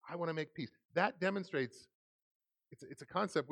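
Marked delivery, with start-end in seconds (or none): 0.1-0.7 put-on earnest, clearly spoken model for a child; meaning every word; sincere peace offering. Shown as a demonstration. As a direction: say it clearly like you mean it. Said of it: "doesn't sound like you mean it".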